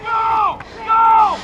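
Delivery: shouting orders. Real, not acted. Ordering team to advance.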